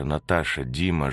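ordinary delivery

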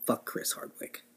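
hissed under his breath; whispered curse. Real, not acted. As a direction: whisper it with contempt. Final insult under his breath.

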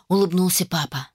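usual speaking voice

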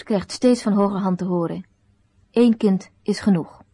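ordinary delivery

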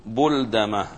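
بلدمة said with "u" after the b, buldama; damma variant. Shown as a demonstration. Teacher giving the name's other form, بلدمة starting bul- with damma. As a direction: open بلدمة on a rounded "bu". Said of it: "بضم الباء والدال".

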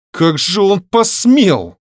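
high-pitched outraged exclamation, drawn out; father outraged on his daughter's behalf; indignant. A narrator's reading. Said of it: "в негодовании воскликнул Дмитрий Григорьевич". (негодующе)

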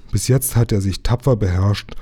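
ordinary delivery, nothing marked

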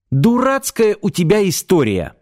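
flaring up. Acted. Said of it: "мгновенно взвилась Света".

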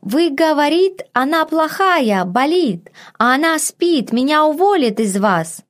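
put-on high, anxious broken northern accent; a panicky maid gushing in mangled dialect; flustered maid in dialect. A narrator's reading. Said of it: "Женщина говорила на северном диалекте".

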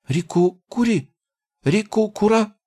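high, puzzled goblin gibberish; a goblin asking in surprise; surprised goblin. Acted. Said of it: "удивлённо спросил".

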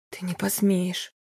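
slow, rasped-out threat; hoarse frightened defiance. Acted. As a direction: force it out in a rasp. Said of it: "прохрипела она".

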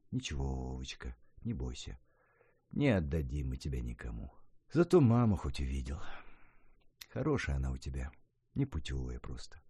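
soft, low, soothing grandma; calm a frightened great-grandson gently; calm reassurance. A narrator's reading. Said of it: "спокойно говорила Софья Сергеевна".

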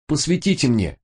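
breathless, straining plea; gasping as he asks; out of breath. A narrator's reading. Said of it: "задыхаясь".

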